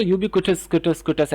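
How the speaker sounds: यूबिक्विटस as yoo-bi-ku-tus, then just the ending repeated; यूबिक्विटस, क्विटस with a "कु" sound, no w; common "ku-tus" pronunciation. Shown as a demonstration. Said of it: "ऐसे कहा जाता है".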